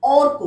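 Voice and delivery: teacher modelling অর্ক with a clear র; model pronunciation. Shown as a demonstration. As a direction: sound র clearly before ক in অর্ক. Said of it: "তার আগে আমরা র".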